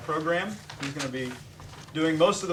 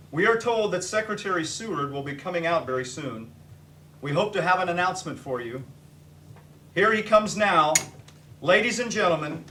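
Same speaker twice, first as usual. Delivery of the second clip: radio announcer. Acted. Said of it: "Now I will go into character".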